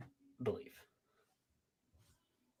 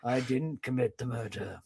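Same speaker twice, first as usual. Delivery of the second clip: low, soft guilty suspect; lowered suspect voice; 8 semitones lower, 9 dB quieter than usual. Retold or imitated. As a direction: deny it quietly, shifty. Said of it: "I'm interviewing you for the murder mystery".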